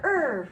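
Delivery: stretched ending sound "Er" held out alone; exaggerated word endings. Shown as a demonstration. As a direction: sound out just the "Er" at the end of star. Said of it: "What ending sound do you hear?".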